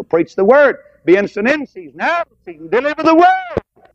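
high, ringing preacher's cry; preaching at full force. Real, not acted. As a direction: lift the Word up to the rafters. Preaching climax.

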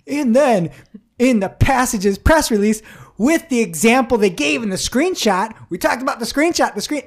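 over-the-top aggrieved spokesman voice; mock upset rant. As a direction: mimic someone harping on a grievance. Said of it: "how upset you are".

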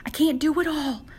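mild pleading, pitch lifted; retold cry to God. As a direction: act out an overwhelmed prayer. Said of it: "I cried out to him".

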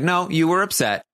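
high-pitched hurried insistence; mock flustered insistence. Podcaster voicing Christmas insisting to Bailey, high and mock-flustered. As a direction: pipe up, a little defensive.

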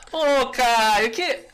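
high, bright friendly call. Shown as a demonstration. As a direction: lift the voice to sound nice. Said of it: "Quando a gente quer ser mais legal".

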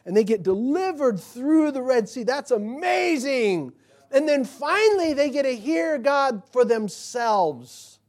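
loud, high, exultant proclamation; fervent preaching. Real, not acted. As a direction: drive the point home with rising fervor. Preacher builds to climactic point.

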